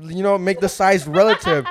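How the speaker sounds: explaining through laughter; laughing. Real, not acted. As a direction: laugh as you lecture.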